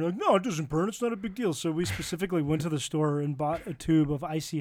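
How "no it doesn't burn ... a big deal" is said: higher, dismissive mock of the friend; mock confidence. Host mimics his friend shrugging off Icy Hot, mock confident. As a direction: brush it off in a higher imitation. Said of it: "you were so confident".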